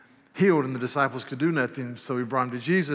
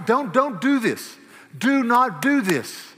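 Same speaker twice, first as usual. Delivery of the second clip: slow, loud, high plea to stop; firm warning; 8 semitones higher, 6 dB louder, slower than usual. Shown as a demonstration. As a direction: plead hard, each word slow. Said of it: "come and say".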